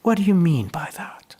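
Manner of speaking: high, whispered disbelief; a mock baffled whisper, like someone who has never heard of the place; puzzled French delegate. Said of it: "the response of the French guy is".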